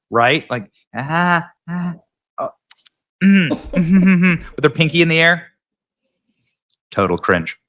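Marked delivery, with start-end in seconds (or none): 0.5-5.5 a lightly voiced dainty sip, savoured noises; imitating her prissy beer sipping; mock sipping sounds. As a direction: ham up tasting a drink, pinky raised. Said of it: "look at the way she drinks it".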